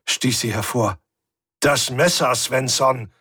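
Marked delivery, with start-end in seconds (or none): 1.6-3.1 sharp. Acted. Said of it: "wiederholte ich scharf".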